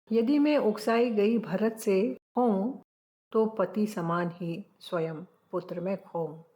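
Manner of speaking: lightly declaimed Hindi poem line; poem recitation. Acted. Teacher recites verse.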